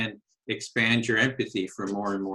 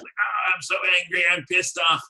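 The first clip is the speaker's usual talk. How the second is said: higher-pitched, hammed-up outrage; mock angry client; 6 semitones higher than usual. Client venting to a therapist, mock angry and higher-pitched. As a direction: play the upset client venting, not quite in earnest. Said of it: "if you're totally mad".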